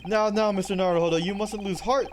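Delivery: loud, pompous detective lecturing; grand detective. Acted. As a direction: boom out advice like a proud sleuth. Sholmes lecturing Naruhodo loudly.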